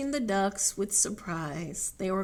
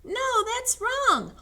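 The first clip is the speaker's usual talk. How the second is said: high, drawn-out objection; protesting animal; 5 dB louder, slower than usual. Acted. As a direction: lightly squeal a slow protest. Story character protests in high voice.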